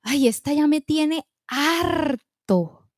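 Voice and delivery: slow, weary, exasperated grumble; fed-up disciples. Acted. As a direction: sigh it out, sick of her. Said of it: "los discípulos estaban".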